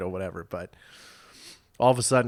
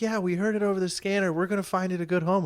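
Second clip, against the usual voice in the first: higher mimicking of the lady; mock pajama lady; 9 semitones higher than usual. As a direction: parrot her excited voice back. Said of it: "I'm like".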